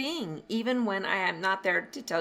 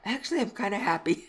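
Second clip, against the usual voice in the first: laughing relief; 4 semitones higher, 6 dB louder than usual. Retold or imitated. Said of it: "she said".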